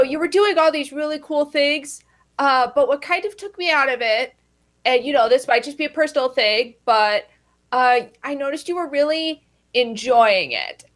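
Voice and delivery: usual speaking voice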